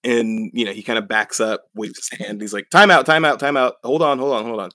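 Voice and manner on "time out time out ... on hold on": high, loud, repeated calls to stop; hammed-up urgent protest, easing off at the end; mock frantic plea. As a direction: act out a flustered call for a truce. Acted plea to stop the fight.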